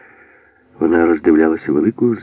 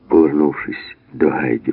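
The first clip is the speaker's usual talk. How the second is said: plain reading voice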